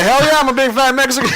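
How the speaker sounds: high pitched mock country accent. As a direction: play the Mexican friend with a hammed up country accent. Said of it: "he has a redneck accent or a country accent".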